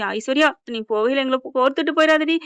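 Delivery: mildly imploring; retold pleading. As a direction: imitate someone begging a dying woman. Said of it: "கையை பிடிச்சு கெஞ்சுறாங்க".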